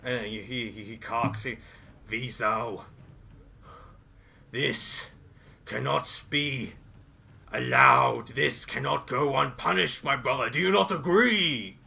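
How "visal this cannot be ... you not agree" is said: vengeful ogre. Acted.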